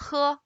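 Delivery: breathy h with an "uh" vowel in "he"; "he" as a Mandarin letter sound, "huh"; Chinese initial h. Shown as a demonstration. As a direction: say "he" as Mandarin "huh", not English "hee". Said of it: "we say".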